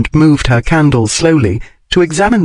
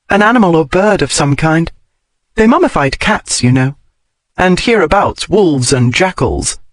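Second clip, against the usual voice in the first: lightly voiced learned heroine, slightly higher; lightly voiced Daphne; 3 semitones higher than usual. Daphne explains mummies to Carsington, lightly voiced learned heroine. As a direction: explain the find with light, raised pitch.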